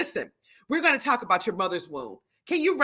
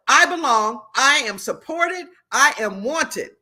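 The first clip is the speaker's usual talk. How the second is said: affirmation; 2 semitones higher, 5 dB louder, slower than usual. Shown as a demonstration. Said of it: "is the affirmation of the day".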